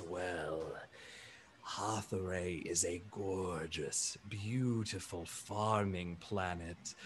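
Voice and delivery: low, soft and slow, proud of home; fond gentle elephant. Acted. Bertrand telling Ikemba about his farming planet, low and soft. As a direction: linger on the beauty of the homeworld.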